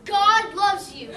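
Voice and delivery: put-on tender old woman. Wolf retelling the old woman in the shoe, slow gentle voice. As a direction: say it slowly, like a kind old woman. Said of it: "She said".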